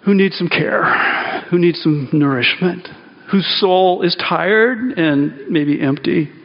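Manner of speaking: reach out gently to the weary; tender. Real, not acted. Pastor inviting the broken to communion, slow and tender.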